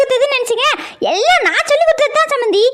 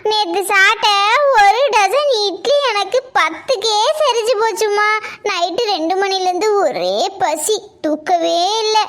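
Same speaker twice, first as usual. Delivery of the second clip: whiny complaint; 4 semitones lower than usual. Acted. Daughter whining about night hunger.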